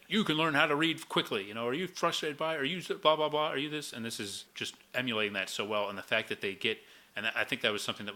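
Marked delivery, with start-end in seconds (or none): 0.1-1.4 put-on high, bright old-timey ad pitch; 1950s narrator. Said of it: "old-timey announcer coming in like". 1.7-3.9 put-on high old-timey ad pitch; 1950s narrator. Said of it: "old-timey announcer coming in like".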